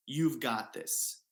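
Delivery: slow, steady and sure; calm certainty, slowed right down; stern, confident. Retold or imitated. Girlfriend reassuring him at the wall, slow and sure. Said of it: "a very stern and confident".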